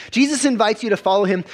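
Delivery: preacher repeating the line with rising force; emphatic repeat. Real, not acted. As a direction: drive the point home the second time. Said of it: "repeated with more force".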